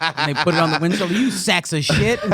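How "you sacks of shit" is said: slow, drawn-out sneer at the drivers; imitating a cop's contempt, slow and a bit louder; mock cop scorn. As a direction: lean on each word like a smug cop.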